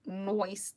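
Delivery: "Noise" said as noice, ending in s; slangy noice for "Noise"; slang "noice". Real, not acted. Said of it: "Does anyone ever say noise anymore".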